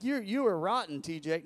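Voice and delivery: high, loud mock-pious rebuke; pious scolding. Congregation judging the preacher, mock pious scolding. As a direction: scold him like a churchgoer judging. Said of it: "looking at me piously like".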